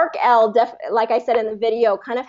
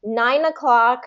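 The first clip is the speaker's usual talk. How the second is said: slow careful; 3 semitones higher, slower than usual. Shown as a demonstration. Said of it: "you did good with that".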